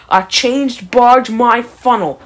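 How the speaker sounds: slow, scornful grumble; grumbling. Acted. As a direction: scoff it slowly. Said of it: "grumbled Gordon".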